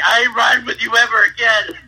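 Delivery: high-pitched quote bubbling with laughter; laughing mock protest. Retelling the scared passenger's vow, laughing mock protest. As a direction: imitate an indignant friend while cracking up.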